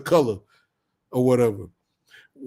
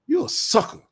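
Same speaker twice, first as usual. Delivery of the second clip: mock taunt; 13 semitones higher than usual. Insulting the possessive man.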